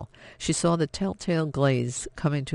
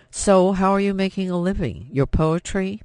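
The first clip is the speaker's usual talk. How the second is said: bitter mockery; 5 semitones higher, 4 dB louder than usual. Father mocks daughter bitterly.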